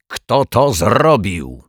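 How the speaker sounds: a mild mock yell, slow and stretched; boy's yell. Boy at the campsite yells in the morning, mild mock yell. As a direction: call out like an upset boy, drawn out. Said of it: "wrzask jakiegoś chłopca".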